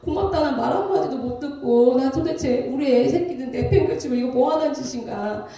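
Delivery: mildly exasperated venting to oneself; aggrieved self-questioning, lightly acted; retold upset lament. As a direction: replay a fed-up, hurt complaint. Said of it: "너무 속상한 거예요".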